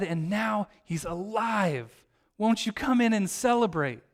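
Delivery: acted pleading. Father answering his resentful older son, mildly acted pleading. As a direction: reason with him, gently imploring. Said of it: "he pleads with his son".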